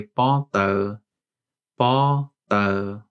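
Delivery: careful White Hmong demo; Hmong word. Shown as a demonstration. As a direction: say "pa tao" clearly, in Hmong tones. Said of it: "we would say".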